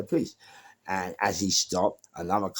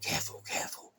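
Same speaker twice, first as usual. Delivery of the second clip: radio voice; 7 dB quieter than usual. Retold or imitated. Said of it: "I heard it come back saying".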